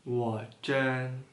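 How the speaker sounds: word by word, long pauses between; slow, one word at a time; reading aloud haltingly. Shown as a demonstration. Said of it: "Coba baca pelan-pelan".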